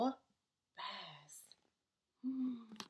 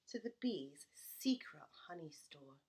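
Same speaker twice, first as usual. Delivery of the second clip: secretive whisper; 7 semitones lower, 7 dB quieter than usual. A narrator's reading. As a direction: whisper it, soft and hushed. Sneaking to the secret store.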